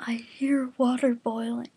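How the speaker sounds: breathy whisper, unvoiced; hushed scared whisper. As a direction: whisper it like something's lurking nearby. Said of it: "Kuwabara hissed".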